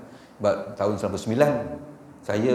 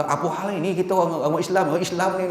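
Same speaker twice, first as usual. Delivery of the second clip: retold retort; 9 semitones higher, faster than usual. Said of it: "saya kata pula".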